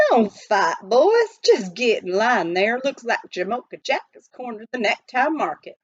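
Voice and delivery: lightly voiced jolly miner; jovial miner. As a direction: keep the eager crowd in line, amused. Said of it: "Pitch Pine Billy was laughing".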